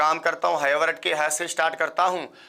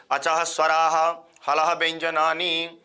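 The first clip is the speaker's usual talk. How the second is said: slow recited sutra; slower than usual. Shown as a demonstration. Teacher drilling students in sutras, slow chant. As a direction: chant each sutra slowly, word by word. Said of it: "तीन line हो गई भाई साहब".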